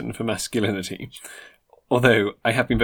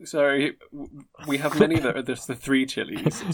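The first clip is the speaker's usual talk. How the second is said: waiter role; 2 semitones higher, 3 dB louder than usual. Acted. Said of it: "And I will play him in this".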